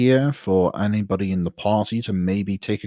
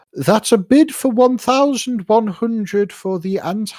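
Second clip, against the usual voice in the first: sunny, bright, cheerful, very high-pitched, announcer-like; 12 semitones higher, 3 dB louder than usual. Voicing the auctioneer announcing a bid: beaming, cheerful. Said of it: "beaming smile once more as he says".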